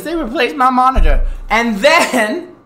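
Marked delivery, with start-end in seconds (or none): 0.0-1.3 mock dramatic shock. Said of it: "I was like".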